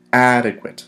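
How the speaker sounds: "Adequate" firmly accented on its first syllable; stress on first syllable. Shown as a demonstration. Teacher repeating the accent for students, "Adequate" stressed on first syllable. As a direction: hit the start of "Adequate", let the rest fall. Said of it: "accent is placed on the first syllable".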